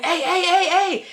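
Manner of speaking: high, laughing mock call of hey; calling devil guy. Boyfriend calling after her in the street, high laughing mock call. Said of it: "he kept saying".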